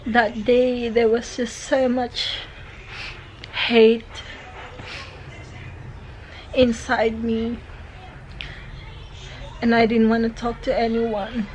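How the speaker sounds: teary, voice still unsteady; after crying. Real, not acted. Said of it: "sorry, I'm still teary-eyed".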